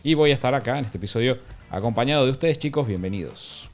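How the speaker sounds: hoarse sick voice; raspy from a cold; smoker's rasp. Real, not acted. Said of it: "con tu nueva voz".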